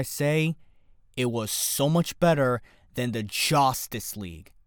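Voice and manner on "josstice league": "Justice" said as "Joss-tice"; punning pronunciation. Shown as a demonstration. Host slipping a pun to listeners, "Justice" said as "Joss-tice". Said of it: "Jo-, Joss Whedon".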